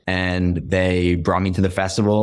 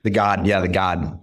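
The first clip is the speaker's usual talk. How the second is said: Boston accent, no R in "Garden". Shown as a demonstration. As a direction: say "Garden" the Boston way, like "GAH-den". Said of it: "No, no R's".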